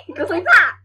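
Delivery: excited loud show-and-tell; loud demonstration. Real, not acted. Child demonstrates louder, giggling.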